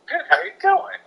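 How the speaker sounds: a high, eager hello; excited greeting. Retold or imitated. Greeting the camp friend he recognized, high and eager. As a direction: greet him like a long-lost buddy.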